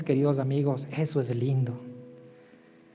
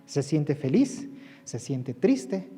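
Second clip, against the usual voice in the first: slow emphatic; 3 semitones lower, 5 dB quieter, slower than usual. Shown as a demonstration. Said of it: "slow emphatic listing".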